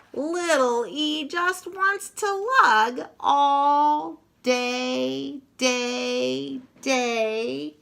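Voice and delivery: eager lilt. Acted. Eager little digger.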